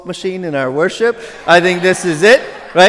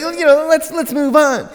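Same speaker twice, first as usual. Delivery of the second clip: mock impatience; 9 semitones higher than usual. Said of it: "you're like".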